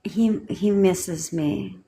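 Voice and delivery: slow, soft unsure voice; timid hopeful wondering; meek doubtful. Shown as a demonstration. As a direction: say it like you doubt it. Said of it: "Should you say it like".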